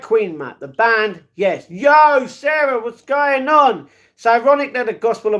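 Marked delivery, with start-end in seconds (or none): 1.7-3.9 calls out the greeting, higher and louder; big cheery hello to a chatter. Real, not acted.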